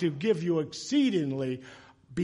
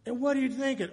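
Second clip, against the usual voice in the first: stern officer; 6 semitones higher, 5 dB louder than usual. Retold or imitated. Officer confronts speeding driver.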